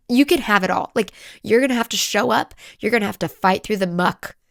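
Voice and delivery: loud, pressing list of demands; demanding. Retold or imitated. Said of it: "I was so demanding".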